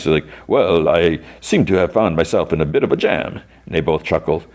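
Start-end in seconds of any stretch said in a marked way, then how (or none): 0.5-3.4 sophisticated voice. Retold or imitated. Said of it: "almost like a sophisticated voice".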